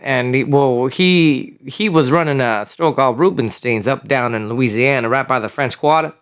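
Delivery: put-on Louisiana accent; Creole-tinged Louisiana accent; New Orleans accent. Shown as a demonstration. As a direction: talk like a New Orleans local. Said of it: "I learned to develop an accent".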